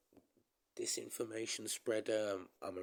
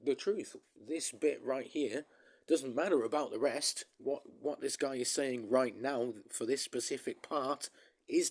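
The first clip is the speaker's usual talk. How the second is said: mock paraphrase; 4 semitones higher, 3 dB louder than usual. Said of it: "I said that in a message".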